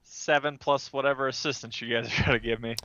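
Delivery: usual speaking voice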